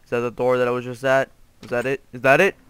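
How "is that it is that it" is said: growing excitement. Real, not acted. Repeats the question with growing hope.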